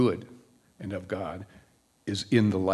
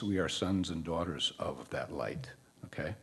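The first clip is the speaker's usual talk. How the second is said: whisper; 5 semitones lower, 8 dB quieter than usual. Real, not acted. Intimate aside to congregation.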